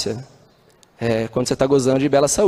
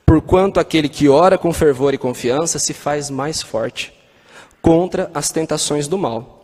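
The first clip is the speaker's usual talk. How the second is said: solemn reading; slower than usual. Acted. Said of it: "os espíritos responderam".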